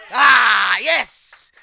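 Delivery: loud, exultant shout; triumphant yes. Real, not acted. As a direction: cheer yourself on. Answering his own question. (cri de triomphe)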